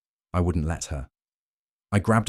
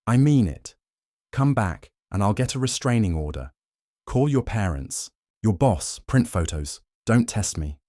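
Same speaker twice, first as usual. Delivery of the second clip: stern threat; 4 semitones higher than usual. Acted. Husband threatens cheating wife.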